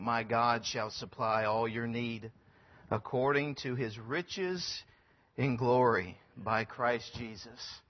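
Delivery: slow, measured reading of the verse; scripture recitation. Acted. Missionary quoting Philippians to the church, slow and measured. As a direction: let each phrase of the verse land, slowly.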